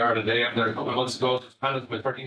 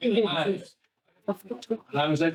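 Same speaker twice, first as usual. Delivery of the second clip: laughing while talking; 7 semitones higher, much slower than usual. Real, not acted. Still laughing after camera moment.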